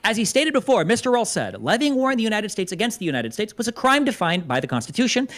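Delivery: steady formal reading of a legal text; courtroom-style read-through; reading aloud. Acted. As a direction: read the quote out plainly and formally.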